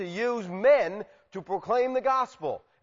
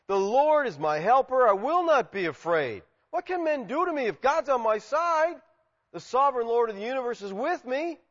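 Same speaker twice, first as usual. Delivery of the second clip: raised, ringing statement of faith; confident declaration; 7 semitones higher than usual. Acted. Believer saying God is their helper, confident and emphatic. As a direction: declare it boldly, pitch lifting as it builds. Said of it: "we may confidently say".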